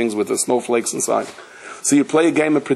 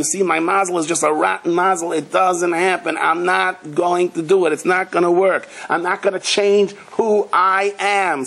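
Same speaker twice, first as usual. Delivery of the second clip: defeatist whine; 4 semitones higher than usual. Acted. Voicing a defeatist's excuses.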